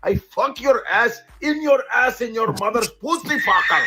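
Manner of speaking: high-pitched, sing-song mock Indian accent; hammed-up Indian-accented swearing; clumsy Indian-accented cursing. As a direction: pile up curses in a comic Indian accent. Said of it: "don't even feel cursed out when they curse".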